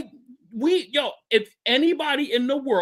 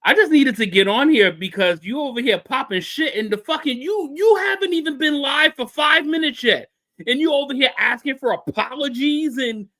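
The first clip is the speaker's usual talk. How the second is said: numb mouth, slightly slurred; speaking through a numb jaw; numb from the dentist; 4 dB louder than usual. Real, not acted. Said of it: "my whole bottom part of my mouth is, like, numb".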